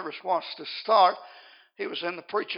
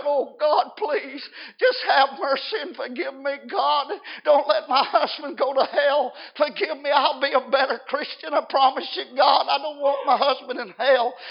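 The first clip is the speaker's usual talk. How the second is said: raised, pleading cry for mercy; acted tearful plea; 5 semitones higher, 5 dB louder than usual. Wife prays for forgiveness and her husband, acted tearful pleading. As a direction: beg God as the weeping wife. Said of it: "with tears flowing down her cheeks".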